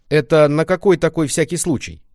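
high, loud suspicious question; suspicious granny. Acted. Grandma questions Lenka, suspicious granny.

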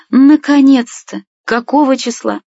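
high, loud and drawn-out joy; grandma hears of the wedding, high delighted cry; delighted exclamation. Acted. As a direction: burst out with relief at the news.

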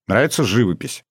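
"живопись" stressed on its last syllable, живопИсь. A narrator's reading. Boy asking Masha about the painting, "живопись" stressed on final -пись. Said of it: "я сделал ударение на последний слог".

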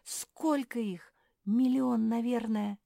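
alarmed, high-voiced cry; yelling. A narrator's reading. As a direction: marvel loudly at the swarm. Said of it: "закричала Жози".

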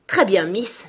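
fâcherie jouée, plus fort; faussement irrité. Acted. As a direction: gronder pour cacher sa joie. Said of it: "sous un air irrité". (irritation feinte, un peu plus forte)

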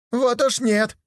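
гораздо выше и громче, резко; выкрикни возражение; крик. Acted. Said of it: "закричал опять первый". (первый слепой спорит, крича)

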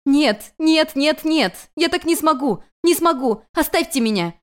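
high, loud cries of refusal; a young goddess screaming that she can't; desperate shouting. Acted. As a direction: hurl the no's at him, breaking down. Girl refuses in despair.

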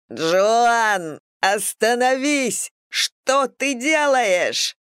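high, drawn-out desperate cry; frantic scream. A narrator's reading. Eric calling Joan back from the edge, frantic scream. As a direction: cry out slowly, pitch soaring. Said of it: "истошно закричал Эрик".

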